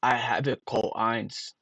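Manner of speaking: "I have it Cool Eins" read as it is spelt; sounded out, Irish-sounding. Shown as a demonstration. Streamer proving his theory to viewers, sounded out. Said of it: "It sounds Irish".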